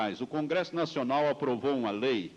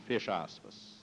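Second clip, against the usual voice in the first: dictating; 6 semitones lower, 6 dB quieter than usual. Acted. Reading quote punctuation aloud.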